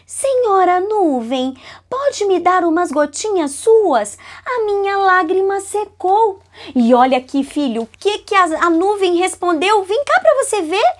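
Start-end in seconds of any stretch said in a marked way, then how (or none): 0.1-6.4 Lacriminha's plea. Acted. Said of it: "falou assim com a dona Nuvem".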